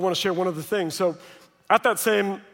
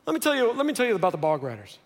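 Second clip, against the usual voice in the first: eager grandfather; 4 semitones higher, faster than usual. Retold or imitated. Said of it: "He's like".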